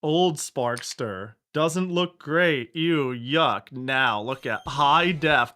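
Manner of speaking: slow, mocking trailer-narrator parody; mock promo voice. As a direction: sneer through the ad pitch slowly. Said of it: "It's like".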